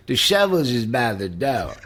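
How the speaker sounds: imitated under-the-breath aside; lightly put-on mumbled line reading; Michael Landon. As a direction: mimic an actor slurring a line to himself. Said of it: "underneath his breath goes".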